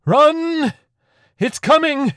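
high, urgent scream; panicked yell at the top of the voice; screamed warning. A narrator's reading. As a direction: scream it out to be heard over chaos. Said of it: "the priest screamed into the brief silence".

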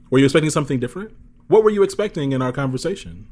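fast, pointed question put back on them; pointed challenge. Retold or imitated. Challenging people who call him well-spoken, pointed and fast. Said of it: "So now I say things like".

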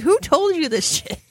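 high, slow incredulous demand; high slow mock outrage. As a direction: ask it in mock disbelief. Retold disbelief at friend.

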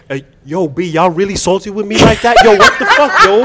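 street hustler slang, lightly put on; hood voice. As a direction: talk like a guy from the block. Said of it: "I'm gonna use my hood voice".

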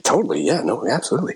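breezy fake assurance with swooping pitch; overconfident bluff. Young performer lying to circus people about skills, overconfident bluff. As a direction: bluff your way through, a bit too eagerly.

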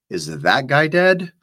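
Harry panicking after seeing Serena drug the man, alarmed and high; alarmed question. A narrator's reading. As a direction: blurt it out in alarm. Harry alarmed after needle attack.

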